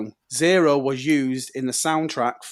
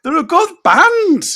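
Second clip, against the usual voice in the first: very high, loud, slow protest; mock outrage; 13 semitones higher, 6 dB louder, slower than usual. Fan defending a beloved band to mates, mock-outraged. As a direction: squeal it in indignant defence.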